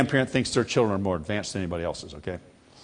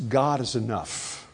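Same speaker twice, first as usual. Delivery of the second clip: slow recitation; 3 dB quieter, slower than usual. Shown as a demonstration. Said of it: "Would you say that with me".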